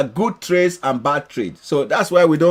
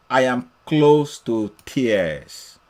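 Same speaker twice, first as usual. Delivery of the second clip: slow, lower, drawn-out reading of a moved man; imitated emotional; 4 semitones lower, much slower than usual. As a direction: read it slowly, as if mildly moved. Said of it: "he is emotional".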